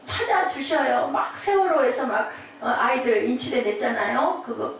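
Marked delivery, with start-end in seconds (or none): 0.0-1.1 slow, drawn-out breathy begging; acted pleading. Parent begging for a missing child's life, slow pleading. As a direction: beg desperately, stretching the words.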